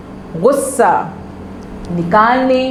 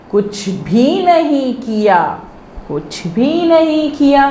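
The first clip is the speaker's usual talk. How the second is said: कुछ भी नहीं किया said slowly, chunk by chunk, to be repeated; slow repeat drill; 6 semitones higher, slower than usual. Shown as a demonstration. Teacher to pupils, slow drill phrase for echoing. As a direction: spell out कुछ भी नहीं किया for the class to echo. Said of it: "दोहरा रहे हैं ना".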